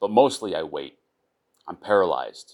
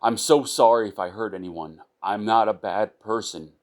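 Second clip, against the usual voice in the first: tearful plea; 3 semitones higher, 3 dB louder than usual. Acted. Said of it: "I exclaim. My voice shudders".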